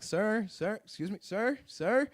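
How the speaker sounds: retold insistent calls, climbing in pitch; calling for attention. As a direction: imitate an official flagging someone down. Agent waving down oblivious traveler.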